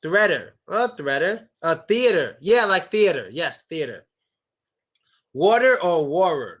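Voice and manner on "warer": "warer" with an R in place of the T; missing D. Shown as a demonstration. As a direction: say "warer" with no D at all. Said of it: "No, water".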